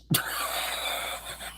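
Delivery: soft voiceless trailing laugh; breathy laugh. Real, not acted. Streamer laughing at his jab, softly. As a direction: let out a soft, airy laugh.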